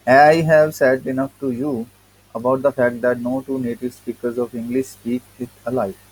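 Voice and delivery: reading the essay slowly, word by word; slow text reading. Acted. Teacher reading the English essay to students, slow and deliberate. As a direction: read each word out to the class.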